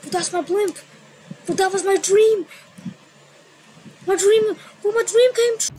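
high squealing overjoyed screams; shrieking jackpot winner. Retold or imitated. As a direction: shriek like you won the jackpot. Always overreact to donations.

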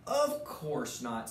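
a hint of a gentle big moose; kindly moose. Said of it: "smiled Thidwick, the big-hearted moose".

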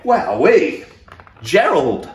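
loud delighted wowee; excited cheer. Real, not acted. Reader cheering the giraffe's leap, loud and delighted. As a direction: cheer for the trick. Gerald's somersault.

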